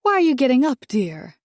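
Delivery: put-on a refined older lady asking sweetly; Dolores voice. A narrator's reading.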